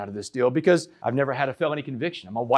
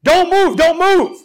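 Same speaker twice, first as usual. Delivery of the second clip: retold full-lung yell, much higher and louder; cop screaming; 12 semitones higher, 9 dB louder, slower than usual. Swat cop screaming at the dazed speaker on the couch, yelling. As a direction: bark the order like a swat cop. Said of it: "he is screaming at the top of his lungs".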